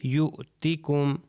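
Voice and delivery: یؤتیکم read slowly as yutikum; teacher repeats یؤتیکم for the class; slow demo reading. Shown as a demonstration. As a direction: model یؤتیکم with no waw sound, slowly. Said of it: "تو یہ ہو جائے گا".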